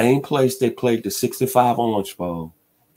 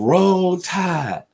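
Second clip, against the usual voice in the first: fan cheer; 7 semitones higher than usual. Retold or imitated. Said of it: "they're saying".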